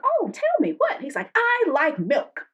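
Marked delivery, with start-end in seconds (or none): 0.0-1.0 much higher, playfully eager; mock eagerness. 1.4-2.5 slow laughing quote. Retold or imitated. Quoting date, laughing.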